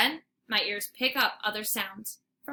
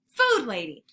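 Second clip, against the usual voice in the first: calling out; 5 dB louder than usual. Acted. Human calling out below.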